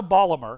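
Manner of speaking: Ballimer, the t dropped and the r swallowed; Baltimore as Ballimer. Shown as a demonstration. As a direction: say Ballimer like a local. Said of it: "You also say hoagie and Ballimer".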